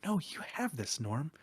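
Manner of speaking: gentle, human pep talk; fond, reassuring self-talk; really affectionate. Acted. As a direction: encourage yourself tenderly, nothing robotic. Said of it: "really affectionate and, like, very humanistic".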